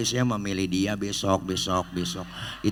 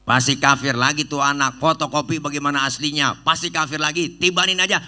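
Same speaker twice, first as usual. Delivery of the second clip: insistent angel; 5 semitones higher, 4 dB louder than usual. Acted. Jibril insists on punishment.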